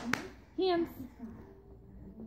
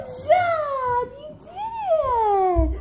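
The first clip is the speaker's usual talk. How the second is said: excited praise; much slower than usual. Real, not acted. Praising baby's success.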